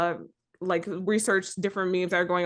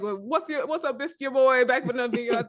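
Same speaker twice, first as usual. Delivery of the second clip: YouTuber intro voice; 5 semitones higher than usual. Retold or imitated. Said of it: "it started off like".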